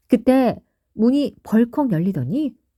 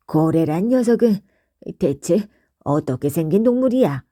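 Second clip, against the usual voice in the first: a hint of a gruff, curious question; curious Gogo; 2 semitones lower than usual. Gogo asks Bandal what a whale looks like, lightly voiced gruff curiosity. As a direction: ask bluntly but eagerly. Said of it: "반달에게 물었어".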